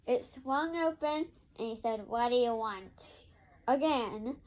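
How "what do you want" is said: a hint of rude, lower voice; lightly voiced grumpy neighbor snapping. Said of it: "still in a very rude tone".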